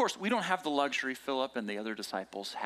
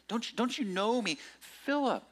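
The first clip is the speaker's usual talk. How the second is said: "Philip" pitched high at the end; calling by name; 9 semitones higher than usual. Shown as a demonstration. Jesus calling Philip by name, "Philip" raised. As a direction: make "Philip" ring out personally. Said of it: "Jesus is calling him by name".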